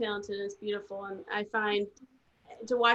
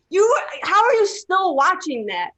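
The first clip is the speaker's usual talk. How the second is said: laughing tease; 9 semitones higher, 10 dB louder than usual. Real, not acted. Teasing friend about her show.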